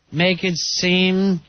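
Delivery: muffled behind hands; face in hands. Real, not acted. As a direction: talk through your hands. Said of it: "I have my hands over my face".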